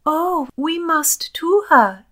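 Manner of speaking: high, loud, drawn-out outcry; slow, swooping, urgent plea; impassioned cry. A narrator's reading. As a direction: cry out as an eager young lady. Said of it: "cried Elin".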